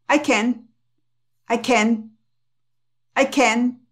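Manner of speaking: CAN'T as "ken", stopped without a burst; unexploded T. Shown as a demonstration. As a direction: leave the tongue on the T of CAN, unreleased. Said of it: "ya ahí se quedan".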